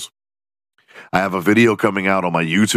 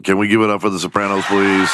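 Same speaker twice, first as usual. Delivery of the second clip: hype call-out; faster than usual. Real, not acted. Hyping the audience.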